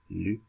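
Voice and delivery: French "Le" said with a rounded French vowel. Retold or imitated. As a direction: say "Le" the French way, like the friend did. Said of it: "he was like".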